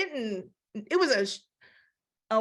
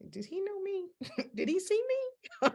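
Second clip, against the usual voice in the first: high, giggling and caught out; nervous laughing; 10 semitones higher, 5 dB quieter than usual. Retold or imitated. Caught sinners asking if they were seen, giggling nervously.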